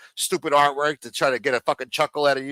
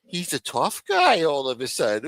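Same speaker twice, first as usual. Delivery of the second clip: mock gossiping viewers. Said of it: "they eat it up when I talk like this".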